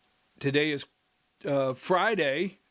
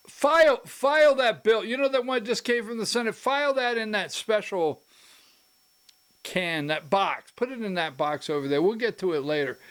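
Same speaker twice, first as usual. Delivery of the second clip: raised, dismissive voice telling staff to file the bill; higher mock order to bin the bill; mocking John Burns; 5 semitones higher than usual. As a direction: brush the bill aside like a smug Speaker. Mock Speaker ordering bill filed.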